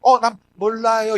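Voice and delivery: 느리게 늘여 말하는 순진한 발뺌; 아무것도 모르는 척 천천히 말하기; 순수한 부인. Acted. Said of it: "이런 순수한 몰라요". (순진하게 모른다는 말투)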